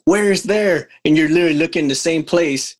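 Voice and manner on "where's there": quoted retort pitched well up; a baffled husband asking where, higher. Retold or imitated. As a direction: lift it high as a baffled question. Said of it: "I'm like".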